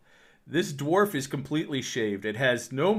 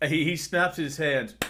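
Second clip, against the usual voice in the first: usual speaking voice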